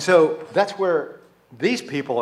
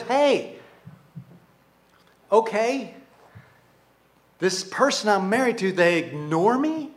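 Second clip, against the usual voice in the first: higher, slow complaint, acted; aggrieved spouse; 5 semitones higher than usual. Spouse complaining to others about being ignored, aggrieved. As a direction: voice a wounded spouse listing grievances. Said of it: "one is saying to the others".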